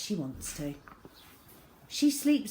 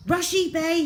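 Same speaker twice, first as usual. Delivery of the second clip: high, loud call to the crew; rally the men with it; commanding cry; 10 semitones higher, 7 dB louder than usual. A narrator's reading. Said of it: "he cried".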